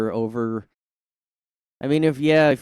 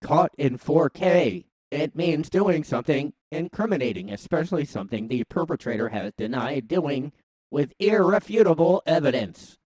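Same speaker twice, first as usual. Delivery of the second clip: robot voice; 4 semitones higher than usual. Acted. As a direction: read it like a robot. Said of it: "I was already doing the robot voice".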